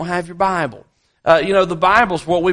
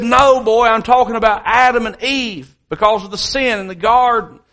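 higher, louder retold correction; lightly acted exasperation, raised voice; mildly upset grandfather; 5 semitones higher, 3 dB louder than usual. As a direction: imitate a grandfather emphatically setting the boy straight. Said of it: "he's so upset with Adam".

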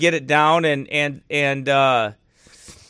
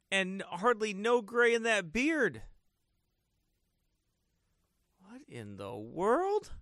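really quiet; 15 dB quieter than usual. Real, not acted. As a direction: speak barely above a murmur. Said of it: "Do I sound really quiet?".

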